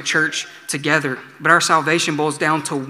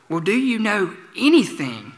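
raised, exasperated question; exasperated gatekeeper; 5 semitones higher than usual. Retold or imitated. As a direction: push him, fed up. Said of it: "the gatekeeper".

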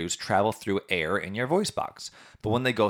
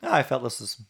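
squeaky voice with laughter; laughing through the helium; 4 semitones higher, 5 dB louder than usual. Real, not acted.

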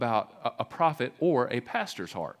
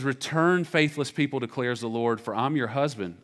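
scripture reading. Shown as a demonstration. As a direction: call it out like God summoning his people. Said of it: "It says".

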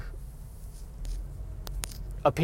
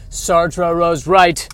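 very slow, heavy pronouncement; slow dramatic declaration; 4 dB louder, much slower than usual. Acted. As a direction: drag each word out like a doom prophet.

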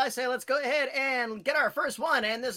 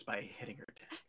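whispering; 13 semitones lower, 15 dB quieter than usual. Acted. Host's playful aside about guest.

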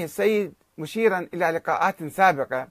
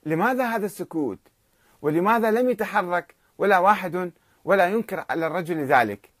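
wondering aloud; 3 semitones higher than usual. Retold or imitated. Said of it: "يتساءل السيد حسن الكشميري متعجبا".

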